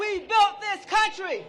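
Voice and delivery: slow, shouted chant line; slow rally shout; call to the crowd. Real, not acted. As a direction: lead the crowd, punching each word. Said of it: "Say it with me".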